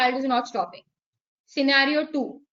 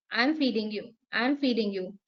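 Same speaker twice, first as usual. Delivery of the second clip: softer repeat; 4 semitones lower, 6 dB quieter than usual. Shown as a demonstration.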